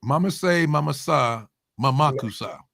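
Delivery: made-up gibberish tossed off as a joke; fake foreign language. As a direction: babble nonsense as if it's a real language. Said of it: "That means I'm eating cheesecake".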